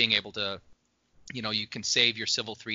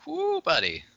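excited whoop; 4 dB louder than usual. Real, not acted. Raving about a dessert.

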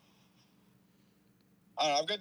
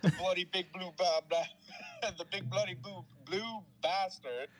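put-on higher-pitched, stumbling British accent; mock British accent; 5 semitones higher than usual. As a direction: trip over a tongue twister in fake British. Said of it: "do it with a British accent".

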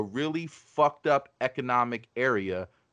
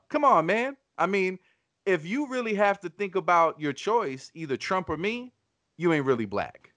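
lightly imitated politician, pitched up; Joe Biden; 7 semitones higher than usual. Host quotes the candidate's response to Charlemagne, light imitation. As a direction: brush it off in a higher quoting voice. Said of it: "Joe Biden's response was".

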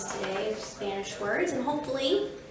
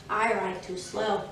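slow, subdued tortoise voice; tortoise character; 3 semitones lower than usual. Acted. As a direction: drag the words out like a tortoise. Tortoise's excuse, slow and low.

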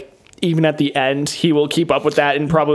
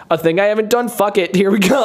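Rock impression; 6 semitones higher than usual. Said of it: "he's just like".

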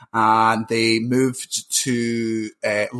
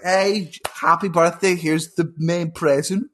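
mock solemn parents; 2 semitones higher than usual. Parents announcing in a story.

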